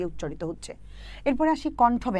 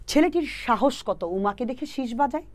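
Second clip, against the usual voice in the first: slow mnemonic recital; 3 semitones higher, slower than usual. Shown as a demonstration. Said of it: "সহজ করে যদি বলি".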